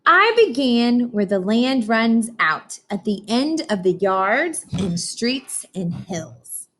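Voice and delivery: put-on slow, expressive read-aloud for children; storybook reading. Teacher reading Atlantic to her class, slow storybook voice. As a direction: read it slowly like a picture book to kids.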